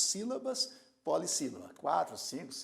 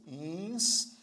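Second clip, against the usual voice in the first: instância in three slow pieces, ins, tân, cia; instância broken up by syllable; slower than usual. Shown as a demonstration. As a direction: sound out instância with long pauses, cia as one syllable. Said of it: "Instância você pronuncia assim".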